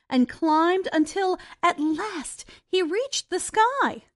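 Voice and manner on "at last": ordinary delivery, nothing marked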